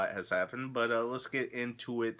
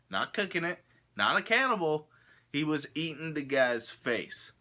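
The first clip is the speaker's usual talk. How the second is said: incredulous emphasis; 5 semitones higher than usual. Real, not acted. Stresses the shocking news story.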